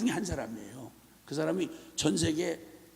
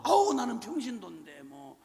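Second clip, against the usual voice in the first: whiny excuse; 4 dB quieter than usual. Retold or imitated. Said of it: "이런 소리 한단 말이에요".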